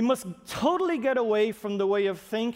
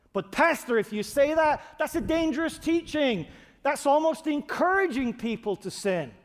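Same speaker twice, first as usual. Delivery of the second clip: objecting churchgoer; 6 semitones higher than usual. Retold or imitated.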